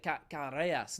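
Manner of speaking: Carreras with a halting start and a rolled R attempt; attempted Spanish pronunciation. Shown as a demonstration. Streamer guessing how Spanish people say it, attempted Spanish pronunciation. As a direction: try Carreras the Spanish way, stumbling on the first R. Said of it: "how do Spanish people say it".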